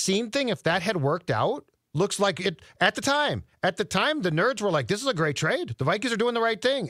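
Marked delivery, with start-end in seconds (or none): 4.9-6.9 nasal nerdy mock voice; lightly voiced nerd impression. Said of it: "the speaker's nerd voice".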